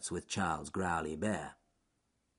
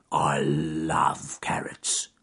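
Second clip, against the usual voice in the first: whisper; 4 semitones lower, much slower than usual. Acted. Bear whispers his craving.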